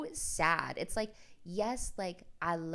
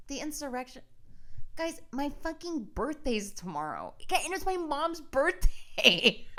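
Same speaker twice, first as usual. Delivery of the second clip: higher, laughing disbelief; giggly outrage; 9 semitones higher, 4 dB louder than usual. Real, not acted. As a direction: laugh through the complaint. Laughing outrage about birthday.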